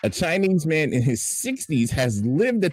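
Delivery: news read. Acted. Fill-in anchor reads the airport story, mock news read. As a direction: stretch key words like a grand newsreader.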